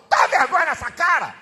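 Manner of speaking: loud shame on you; scolding shout. Real, not acted. Preacher shaming the fathers, loud. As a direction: bark it at the crowd.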